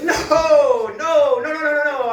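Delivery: panicked protest, no no no; flustered denial. Retold or imitated. Denying being a stripper.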